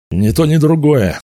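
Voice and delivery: high, lively storybook retort; emphatic refusal. A narrator's reading. Wizard rejects both options in story. (бойкий ответ, высоким голосом)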